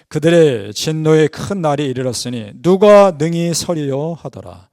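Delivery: slow, measured verse recitation; scripture reading. Acted. Preacher reads of the day of wrath, slow scripture reading. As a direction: read it out deliberately, dropping at the close.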